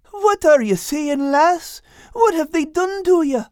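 very high, bewildered character voice; little fellow squeaking in dismay; confused Al. Acted. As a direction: ask in high-pitched, baffled alarm. Al totally confused by changed wife.

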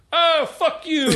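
high, laughing mock curse; mock kid cursing. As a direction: voice the toddler swearing, cracking up. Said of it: "he goes".

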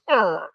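imitated hammy grunt. Imitating the star lurching in an explosion scene, hammy grunt. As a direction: grunt like a ham actor being thrown about. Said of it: "he did his usual".

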